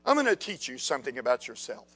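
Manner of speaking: very soft, low-pitched voice; quiet, deep divine address; God. Acted. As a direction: speak low and hushed, as a teacher to one pupil. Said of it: "So God says".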